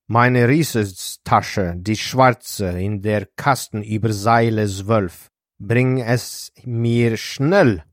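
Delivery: brisk command with drawn-out emphasis; mild bark. Acted. Doctor ordering a stewardess to fetch his bag, barked. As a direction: order it with firm authority, a touch barked. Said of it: "He barked at one of the stewardesses".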